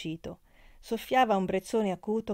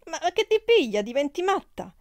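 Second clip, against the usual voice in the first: high, loud, flustered protest; stammering; 10 semitones higher, 7 dB louder than usual. A narrator's reading. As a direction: stammer in shocked bewilderment. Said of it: "rispose balbettando la Malia". (protesta balbettata, acuta e confusa)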